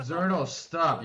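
loud, slow, drawn-out order; exasperated shout. Real, not acted. Player begging Xernos to stop whistling, exasperated shout. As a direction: shout it over the racket, stretching the words. Yelling at Xernos over noise.

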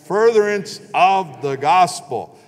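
slow, deliberate call for the congregation to repeat; slow unison recitation. Shown as a demonstration. Pastor leading the congregation to repeat, slow and deliberate. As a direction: lead the room word by word, drawn out. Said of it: "if you'll say this with me".

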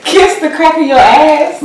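talking through a mouthful of marshmallows; mushy words round a full mouth; cheeks stuffed full. Real, not acted.

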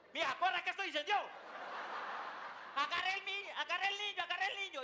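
high, urgent cries; mock-panicked repeated orders; panicked alarm. Husband waking his wife in a fire, in a high panicked shout.

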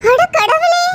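shocked cry. Acted. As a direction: gasp it out in shock. Sister hears of the threats. (அதிர்ச்சியில் அலறல்)

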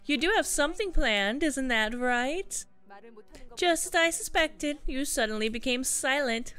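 lightly voiced prying schemer; suspicious sibling figure. Sister prodding Simoon about his secret plan, lightly voiced suspicion.

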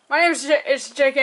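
hiccuping mid-sentence; hiccups. Real, not acted. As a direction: voice jolted by hiccups. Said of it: "if you hear me, like, hiccuping".

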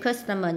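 "customer" stressed on the first syllable. Shown as a demonstration. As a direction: lean on the start of "customer". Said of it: "nhấn âm một".

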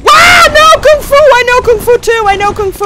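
high loud boast; mock kung fu shout. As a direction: shout like an action hero.

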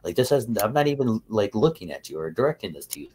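high, incredulous mock rant, easing down by the end; exasperated scolding. Telling off his crying sidekick, exasperated scolding. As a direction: start high and loud, pleading disbelief.

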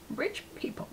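breathy whispered aside after a laugh. Real, not acted. Telling viewers about rich people, in a sly whisper. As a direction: drop to a conspiratorial whisper.

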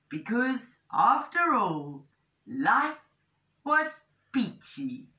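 animated picture-book narration; measured, expressive storytelling; story reading to children. A narrator's reading. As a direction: tell it clearly to young listeners.

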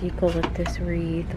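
normal talking voice

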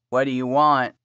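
low, groggy croak. Acted. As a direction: croak it out half asleep. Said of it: "Kevin croaked out".

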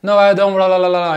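"don't" rattled off high with no T, into la-la babble; T swallowed in speech. Acted. Imagined interviewee in a video, T of "don't" swallowed. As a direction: imitate a native speaker gabbling "don't" without its T. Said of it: "não parece que ele falou o T".

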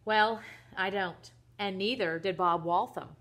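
indignant list of grievances, hitting key words; worked-up, incredulous questioning; exasperated rant. Acted. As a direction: rant like a fed-up father. Father rants about son's antics.

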